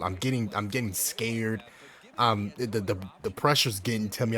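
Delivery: stuttering; nervous stutter; stuttering nervously. Real, not acted. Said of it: "I'm over here stuttering".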